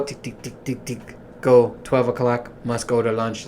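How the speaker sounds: mock machine ticking through a schedule; machine routine. Mocking his work routine, mechanical recital. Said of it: "I feel like a machine".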